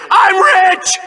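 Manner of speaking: shrieking with glee over the winnings; gleeful shout. Acted. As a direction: crow it like you just won big. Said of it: "all I have to say is".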